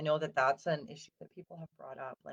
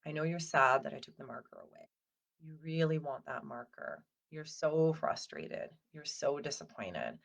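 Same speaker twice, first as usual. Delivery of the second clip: soothing validation. Shown as a demonstration. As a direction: soothe a frustrated toddler. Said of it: "my go-to with my kids is saying".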